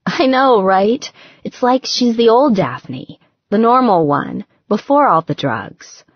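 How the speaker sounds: lightly voiced young woman confiding; Gretchen, lightly voiced. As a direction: voice Gretchen, chatty and a bit worried.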